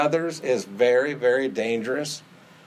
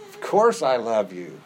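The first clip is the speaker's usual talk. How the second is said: tearful Peter; 3 semitones lower than usual. Acted. Peter voiced, heard cry.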